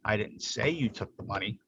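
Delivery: "say" picked out from the other words; stress on SAY. Shown as a demonstration. Presenter testing what listeners hear, stress on "say". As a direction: lean on "say". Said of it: "by emphasizing different words".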